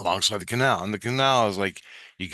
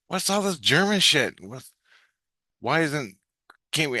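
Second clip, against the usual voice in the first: mock disgust; 6 semitones higher than usual. Disgusted at the German trains.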